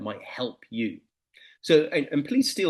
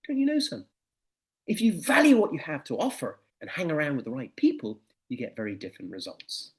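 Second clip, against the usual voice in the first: lightly voiced knowing father. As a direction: deliver the moral like a wise dad.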